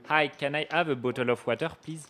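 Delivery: lightly put-on heavy French accent, asking for water; a mock thick French accent, ordering water politely; exaggerated French accent. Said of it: "with the most French accent".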